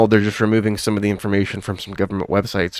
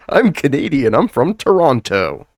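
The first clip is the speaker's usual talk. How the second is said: mock Canadian; 5 semitones higher than usual. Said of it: "A few years later".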